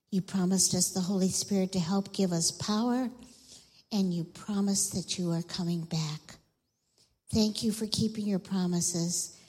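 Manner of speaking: measured, quieting prayer. Real, not acted. Leads children in prayer.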